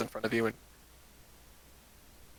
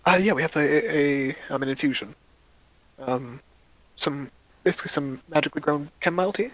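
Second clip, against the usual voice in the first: lightly voiced cheerful shopkeeper, a bit faster at the end; friendly shopkeeper; 3 semitones higher than usual. Shopkeeper greeting two adventurers, lightly voiced and friendly. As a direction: greet new customers brightly.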